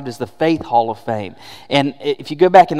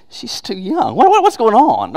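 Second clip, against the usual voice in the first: mounting mock alarm; 6 semitones higher than usual. Onlooker in heaven seeing the new spouse, mock alarm. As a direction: burst out high, as if scandalized. Onlooker's dismay boils over.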